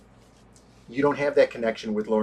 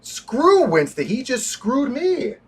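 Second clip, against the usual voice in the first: higher, defiant mock John Wick; 7 semitones higher than usual. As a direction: sneer it like a wronged assassin. Voicing John Wick's defiance.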